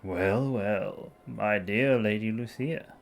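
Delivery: smug upper-class drawl; posh boy voice. Acted. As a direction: play a smooth aristocratic charmer. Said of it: "time to find a new posh boy voice for Ludwig".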